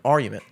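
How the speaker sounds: argument said AR-you-ment, no G; mispronunciation. Retold or imitated. Answering the laughing friends, argument without its G. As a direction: leave the G out of argument. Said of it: "you say that wrong".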